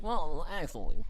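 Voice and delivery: light nasal-free know-it-all "well, actually"; a touch of smug internet troll; nerd voice. Retold or imitated. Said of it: "that's just the nerd voice".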